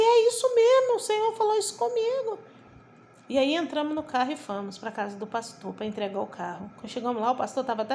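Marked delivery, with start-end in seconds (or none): 0.0-2.4 very high, overwhelmed exclamation; imitated weeping confirmation, pitch soaring; retold tearful cry. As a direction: cry it out high as if reliving the moment. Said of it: "Aí eu comecei a chorar".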